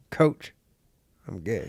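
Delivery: whispered joke. Retold or imitated. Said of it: "He's like".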